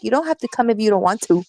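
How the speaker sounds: put-on passive-aggressive mom; imitated manipulative mom. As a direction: mimic mom's guilt trip in a hurry. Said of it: "No, she's like".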